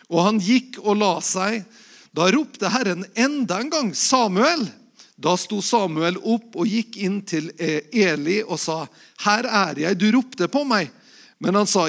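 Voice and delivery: Bible story read aloud with lightly voiced dialogue; scripture reading. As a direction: tell the calling of Samuel to the congregation. Pastor reads 1 Samuel 3.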